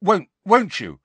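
high, faltering question; uncertain. A narrator's reading. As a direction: stumble on the first word, seeking assurance. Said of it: "he added uncertainly".

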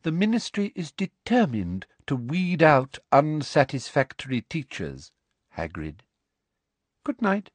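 superior, measured threat; coldly threatening official. Acted. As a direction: deliver an official warning. Voices Umbridge.

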